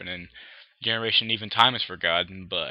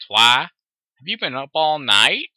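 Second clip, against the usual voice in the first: loud, higher-pitched concerned question; acted concern for a tired friend; 4 semitones higher, 10 dB louder than usual. A narrator's reading. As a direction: ask with worried surprise, voice raised.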